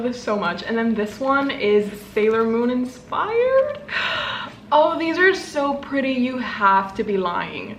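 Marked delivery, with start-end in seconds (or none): 3.8-4.5 sharp, breathy gasp; delighted gasp. Real, not acted. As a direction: gasp in surprise. Sees Sailor Moon stickers.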